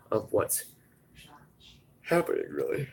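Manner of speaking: words stretched by a yawn. Real, not acted. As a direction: talk through a big yawn. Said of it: "sorry for me yawning so much".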